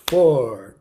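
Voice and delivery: loud count. Shown as a demonstration. Teacher counting loudly for kids' clapping, loud. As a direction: call each beat loud. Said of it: "Now you".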